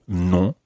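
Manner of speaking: "non" with the vowel through the nose, final n left silent; nasal French vowel. Shown as a demonstration. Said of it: "quite a nasal sound".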